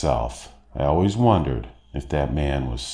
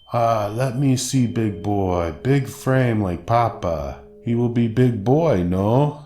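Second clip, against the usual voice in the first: slow, higher Russian woman cooing; Russian accent; 5 semitones higher, slower than usual. Retold or imitated. Stranger holding a snatched baby, slow Russian cooing. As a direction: coo over the baby in a heavy Russian accent. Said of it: "heavy Russian accent".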